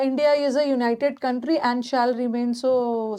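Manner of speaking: reads the sentence out slowly, word by word; slow reading aloud. Shown as a demonstration. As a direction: read the sentence for the class. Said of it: "reading the sentence aloud". (वाक्य को धीरे-धीरे पढ़कर सुनाना)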